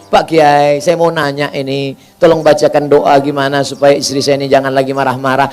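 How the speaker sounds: a meek husband asking for help; sheepish, almost embarrassed plea; humble request. Retold or imitated. Husband asking the Kiai for a prayer to stop his wife's anger, meek.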